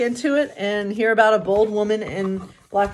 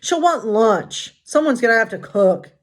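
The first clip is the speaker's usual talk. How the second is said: huffy Grumpy; 3 semitones higher, 3 dB louder than usual. Acted. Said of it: "Grumpy huffed".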